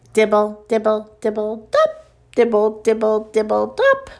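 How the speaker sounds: even, monotone raindrop patter; rhythmic rain imitation; rain dripping. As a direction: drip rhythmically on one note, popping each dop. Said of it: "sound like the rain".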